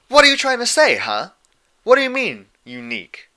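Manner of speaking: loud, high, offended outburst; indignant shout. Acted. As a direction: bristle and call her out. Dash jabs hoof, offended.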